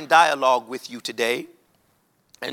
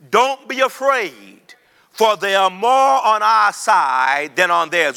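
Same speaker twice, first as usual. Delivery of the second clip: slow, louder call for the church to repeat; call and response; 2 semitones higher, 4 dB louder, slower than usual. Shown as a demonstration. Preacher leads the church in repeating, slow and ringing. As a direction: lead the congregation, slow and ringing. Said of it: "I need you to say with me".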